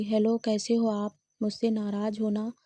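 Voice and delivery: plain reading voice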